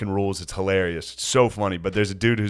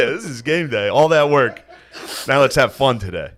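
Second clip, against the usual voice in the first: mock pep talk; 4 semitones higher than usual. Mock pep talk before class.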